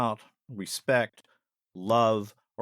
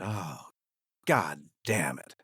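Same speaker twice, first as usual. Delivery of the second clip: imitating an angry mother; 6 semitones lower, much slower than usual. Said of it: "nothing but anger coming off from her".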